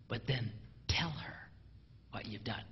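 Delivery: a quiet conspiratorial whisper. Real, not acted. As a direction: let them in on a secret. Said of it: "whispered aside".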